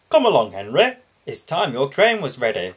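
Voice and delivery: no nonsense, get him moving; firmly. Acted. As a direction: boss firmly ordering sulking Henry. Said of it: "said the Fat Controller firmly".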